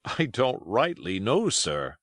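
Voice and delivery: hesitant answer, dropping on sir; lightly voiced evasive old seaman; sheepish sailor. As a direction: answer your captain unsurely. Morgan answers his stern questioner.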